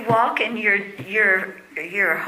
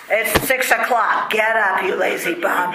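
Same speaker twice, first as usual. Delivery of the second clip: drill sergeant; 2 semitones lower than usual. Retold or imitated. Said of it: "parents are like drill sergeants".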